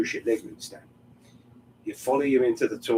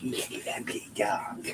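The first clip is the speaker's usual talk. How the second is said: whispering; 3 semitones lower, 6 dB quieter than usual. Real, not acted. Cooing to the dog.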